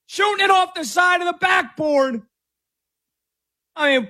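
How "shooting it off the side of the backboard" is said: much higher squeaky panicked yelps; mocking Wembanyama impression. Host mocking Wembanyama losing the ball with high panicked squeals. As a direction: play him as a flustered cartoon, squealing. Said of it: "That's my best impression of Victor Wembanyama".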